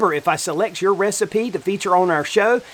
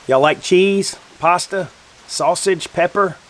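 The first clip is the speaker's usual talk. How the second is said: mouth full; 3 semitones higher, slower than usual. Real, not acted. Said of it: "Don't talk with your mouth full".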